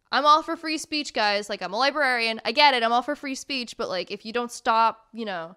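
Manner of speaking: loud exasperated plea to commenters; emphatic rant. Retold or imitated. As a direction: raise the voice, fed up. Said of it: "I was literally like".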